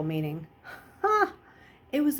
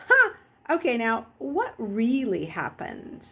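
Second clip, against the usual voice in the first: skeptical mother; 3 semitones higher than usual. Retold or imitated. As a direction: call out the fib, then dig slowly. Mother voiced in story.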